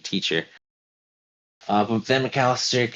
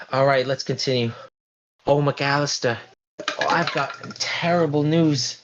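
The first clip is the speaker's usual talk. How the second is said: mock-worried older lady; 6 semitones higher than usual. Lombardi voiced in scene.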